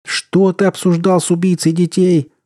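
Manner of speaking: high, outraged shout; bellowing. A narrator's reading. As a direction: yell the accusation. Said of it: "орал капитан".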